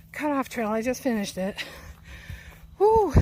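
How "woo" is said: high, loud whoop of relief; excited whoop. Real, not acted. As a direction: cheer at the top. Cheer after finishing climb.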